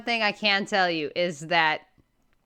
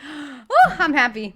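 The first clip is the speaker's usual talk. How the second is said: louder, gasping woo; gasp and cheer; 4 semitones higher, 5 dB louder, slower than usual. Real, not acted. Player celebrating a solved clue with a gasping cheer. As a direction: let out a gasp and a small cheer.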